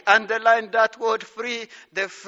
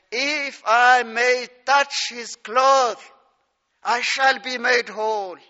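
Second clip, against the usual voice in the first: slow, louder, drawn-out reading of her inner vow; woman's inner vow; 5 dB louder, slower than usual. Acted. Preacher voicing the sick woman's inner resolve, slow and emphatic. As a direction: voice her hope slowly and firmly.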